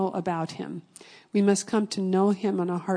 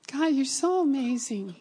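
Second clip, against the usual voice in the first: heartfelt, higher-pitched exclamation to God; awed praise; 5 semitones higher than usual. Real, not acted. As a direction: lift the voice in wonder. Awed exclamation to God after story.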